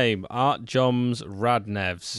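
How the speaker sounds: slow, drawn-out name announcement; mock announcement. Co-host proclaims a new striker's name, mock announcement. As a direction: stretch out each part of the name.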